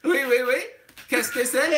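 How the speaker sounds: hammed-up French phrases; put-on French accent; David Ginola. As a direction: play a caricature Frenchman. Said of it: "David Ginola impression".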